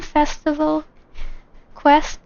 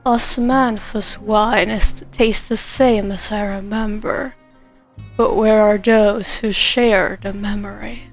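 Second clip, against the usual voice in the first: lightly put-on male voice, starting slow; Song Lee; 3 semitones lower than usual. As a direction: attempt a man's voice, only slightly lowered. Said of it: "You want me to do Song Lee?".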